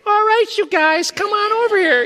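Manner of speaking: high, light, casual voice; not the giant's voice, a light breezy call; friendly casual call. Shown as a demonstration. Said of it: "I don't think it was".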